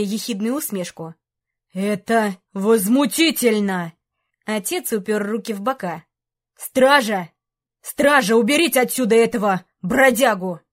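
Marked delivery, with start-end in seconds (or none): 1.7-3.9 slow, loud outraged king; indignant outburst. Acted. 6.6-10.6 loud, commanding shout for guards; calling the guards. Acted. King calls guards.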